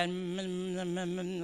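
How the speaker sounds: low murmured mm sounds; imitating a prayer group's mumbled hums; mumbling prayer hum. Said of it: "like that, mumbling away".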